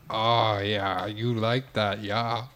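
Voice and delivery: put-on muddled Jamaican accent with Schwarzenegger vowels; Jamaican-Russian accent. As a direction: play a badly faked Jamaican pitchman. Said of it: "like he's starring in a Red Stripe commercial".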